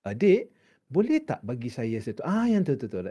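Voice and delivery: very nice. Shown as a demonstration. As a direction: ask sweetly, with a lifted lilting pitch. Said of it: "Versus this one, very nice".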